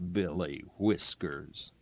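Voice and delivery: low hushed aside to himself; whispered. Acted. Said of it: "Doc whispered".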